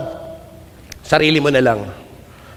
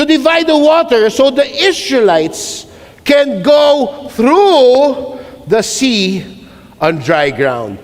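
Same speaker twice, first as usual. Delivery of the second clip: reading God's command; 3 semitones higher, slower than usual. Acted. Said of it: "Then the Lord said to Moses".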